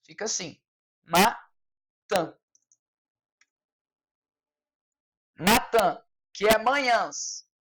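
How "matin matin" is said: matin with a nasal end, ma-tã; French matin. Shown as a demonstration. Teacher dictating for students: nasal matin. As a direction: drill matin slowly with the nasal vowel. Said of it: "essa pronúncia".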